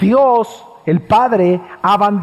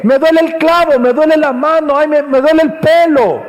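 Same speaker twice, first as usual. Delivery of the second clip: hammed-up petty whining, louder; mock whiny complaint; 5 semitones higher, 4 dB louder than usual. Preacher mocking petty complaints, whiny and hammed-up. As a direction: whine like a crybaby about little pains. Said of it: "No fue una queja de Jesús".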